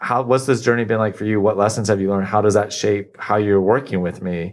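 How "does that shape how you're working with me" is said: normal talking voice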